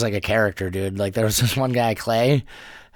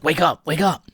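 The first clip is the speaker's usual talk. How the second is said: urgent rousing; 7 semitones higher than usual. Retold or imitated. Buddy rousing him in the car.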